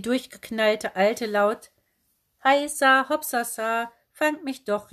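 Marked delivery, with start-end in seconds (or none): 2.4-4.9 a wild aunt hollering as she skips away; crazy aunt calling. A narrator's reading. Aunt Heidrun calling loudly, teasing the kids to chase her. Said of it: "laut ... rief".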